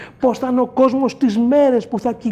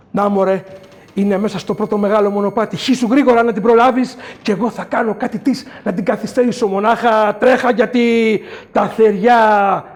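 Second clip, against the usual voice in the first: urgent elder; 5 dB louder than usual. Acted. Creator urging the man.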